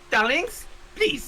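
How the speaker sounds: theatrical voice. Acted. Voicing a character in the game.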